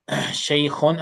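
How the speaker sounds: Shaykhun with a throaty kh from the throat; model pronunciation. Shown as a demonstration. Teacher models kha for a struggling student, throaty kh. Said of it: "So it's very important".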